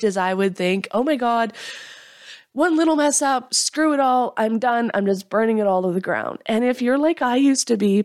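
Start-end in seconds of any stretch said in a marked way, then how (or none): 0.9-6.4 a hint of a dramatic give-up rant; mock frustrated quitting. Jen showing how her mind used to react, mild mock frustration. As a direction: toss it all away in a mild mock huff. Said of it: "that's how my mind worked".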